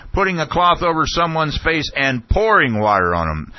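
high-pitched imitated outburst; Ashcroft shouting. Official repeating a questioner's words back, imitated shouting. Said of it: "and he was shouting".

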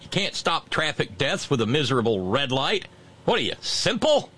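hammed-up preachy reprimand; mock scolding. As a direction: scold Kincaid like a fed-up deacon, lightly voiced. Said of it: "Brother Deacon Asa says".

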